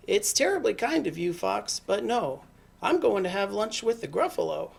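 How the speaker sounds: polite mouse. Acted. Mouse turns down Fox's lunch invitation, polite and slightly high.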